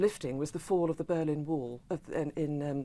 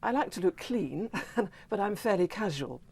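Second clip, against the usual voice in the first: laughing; 4 semitones higher than usual. Real, not acted. Giggling while answering.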